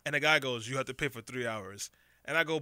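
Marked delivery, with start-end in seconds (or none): 0.7-1.9 put-on clumsy Eastern European accent, low and soft-spoken; poor Eastern European accent. Host quoting the mover demanding more money, poor Eastern European accent. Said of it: "my poor attempt at an Eastern European accent".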